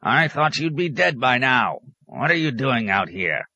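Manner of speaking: high-pitched startled recognition; exclaim, then grouse at the visitor; peevish hermit, high voice; cranky old hermit. A narrator's reading.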